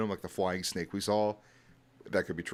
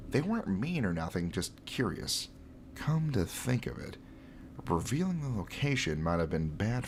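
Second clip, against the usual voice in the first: nerdy voice. Acted. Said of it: "So I gave him a really nerdy voice".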